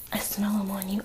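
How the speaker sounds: hushed, threatening whisper up close; menacing whisper. Retold or imitated. Mother grabbing Jeffrey, accusing him in a menacing whisper. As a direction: breathe it right into his face like a threat.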